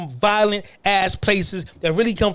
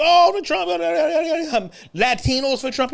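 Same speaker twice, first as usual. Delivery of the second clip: hammed-up mock fan cheer; mocking Latino Trump fans; 9 semitones higher than usual. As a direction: parody an excited Trump fan chanting. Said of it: "Y'all was screaming".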